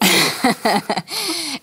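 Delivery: a real high burst of laughter; bright amused laugh at the host's guess. Real, not acted. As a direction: laugh off the question. Laughs at zen-buddhism question.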